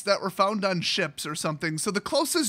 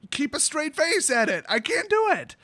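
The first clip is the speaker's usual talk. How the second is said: higher-pitched, mildly exasperated retelling; exasperated protest; 5 semitones higher than usual. Retold or imitated. Retells pleading refusal to mom.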